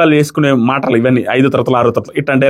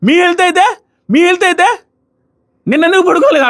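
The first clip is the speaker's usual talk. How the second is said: mock retort; 13 semitones higher than usual. Retold quarrel, Ritu hitting back.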